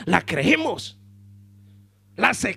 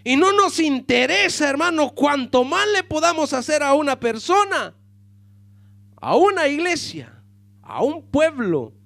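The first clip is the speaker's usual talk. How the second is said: predicación a plena voz, más alta y fuerte; predicando con fuerza; 5 semitones higher, 4 dB louder than usual. Acted. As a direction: proclama como desde el púlpito. Preacher at full force. (sermón enérgico y en voz alta)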